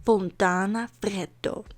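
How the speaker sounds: slow, rolled Italian-accent name. Shown as a demonstration. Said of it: "I tried in an Italian accent".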